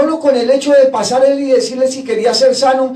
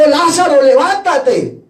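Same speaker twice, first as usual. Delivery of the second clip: name called higher and louder, then a drawn-out order; grito de mando imitado; 4 semitones higher, 4 dB louder, slower than usual. Retold or imitated. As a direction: call the dead man out, stretching the command. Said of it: "y gritó". (grito de mando, alargado)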